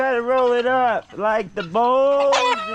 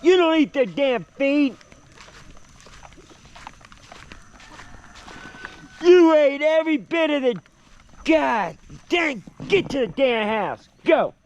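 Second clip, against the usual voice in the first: higher, exasperated scolding of a dog; 4 semitones higher than usual. Real, not acted. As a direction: tell off a naughty dog.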